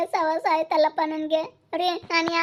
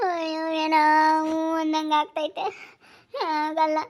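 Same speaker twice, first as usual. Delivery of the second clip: tearful whimper through the words; half-sobbing, scared and helpless; crying. Acted. Scared wife cries to her husband, tearful.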